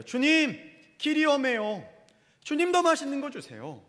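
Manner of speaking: loud, high-pitched complaint to the Lord; complaining. Acted. Israelites grumbling to the Lord about the road and food, complaining. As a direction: whine up high at God, acting out the grumblers. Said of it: "불평하는 거예요".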